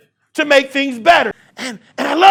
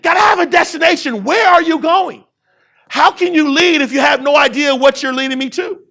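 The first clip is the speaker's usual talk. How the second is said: raised, pressing preacher's voice; preaching shout; 3 semitones higher than usual. Real, not acted. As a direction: drive the questions home to the crowd.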